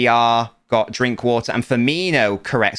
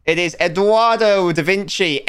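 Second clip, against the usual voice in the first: winner announcement; 5 semitones higher than usual. Pretend. Revealing the winner after drum roll.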